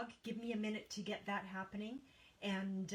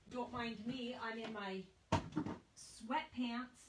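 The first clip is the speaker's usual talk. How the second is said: slow drawn-out aside; 3 semitones higher, slower than usual. Real, not acted. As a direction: stretch out every word slowly. Joking aside about her outfit.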